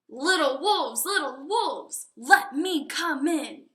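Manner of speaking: loud, wheedling big bad pig at the door; pig's sly, loud demand; menacing pig. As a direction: lean on the door and demand to be let in.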